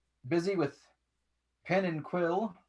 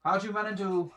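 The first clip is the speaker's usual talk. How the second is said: amused master voice; 4 semitones higher than usual. Acted. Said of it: "He goes".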